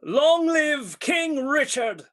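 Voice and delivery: rousing cheer for the king; cheering shout. Acted. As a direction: call it out to the crowd.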